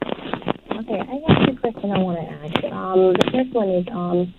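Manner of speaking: faint, breaking-up phone line; over the phone. Real, not acted. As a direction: caller cutting out on a bad connection. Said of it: "You're breaking up".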